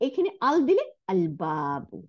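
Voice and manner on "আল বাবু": "আল বাবু" with a clear L before the B; "আল বাবু" with nothing doubled; sounded L. Shown as a demonstration. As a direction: pronounce the L in "আল বাবু", long vowel after B. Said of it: "লামের উচ্চারণ হয়েছে".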